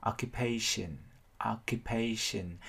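slow "occupation" in four connected syllables; measured o-ccu-pa-tion, joined up as "occupation"; four linked syllables. Shown as a demonstration. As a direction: sound out "occupation" slowly, syllable by syllable. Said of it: "mình có bốn âm liền".

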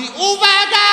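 very high, loud warning shout. Retold or imitated. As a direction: scream a warning at the driver. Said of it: "mówi: (pointing at car, shouting)". (krzyk ostrzegawczy kobiety)

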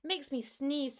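a worried little cat voice; kitten voice. Acted. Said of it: "said Tom Kitten".

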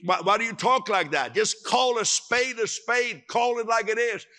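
a hint of impatient scoffing; mock scoffing. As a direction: imitate a blunt doubter. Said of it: "Seemed like".

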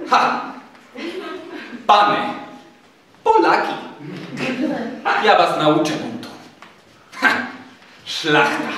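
blustering, threatening major; angry tirade. A narrator's reading. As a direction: rail at them in separate bursts, with scornful pauses. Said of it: "od gniewu parska".

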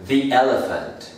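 "the" with a long ee before elephant; "the" as "thee". Shown as a demonstration. Teacher showing the article before a vowel, "the" as "thee". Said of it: "también empieza por vocal".

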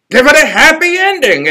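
high advising crocodile; friendly high creature advice. A narrator's reading. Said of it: "advised the crocodile".

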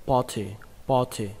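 party with the A rounded slightly toward O; O-like vowel. Shown as a demonstration. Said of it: "nó hơi giống âm O một chút". (đọc party với âm A hơi giống O)

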